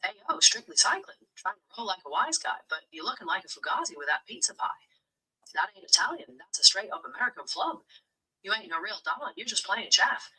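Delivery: put-on light Brooklyn gangster accent; tough-guy Brooklyn wise guy. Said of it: "in my best Brooklyn accent".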